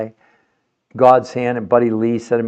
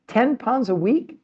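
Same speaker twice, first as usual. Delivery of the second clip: high, slow, even more amazed repeat; mock disbelief; 11 semitones higher, slower than usual. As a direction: ask "Ten pounds a week?" as if it were unheard of.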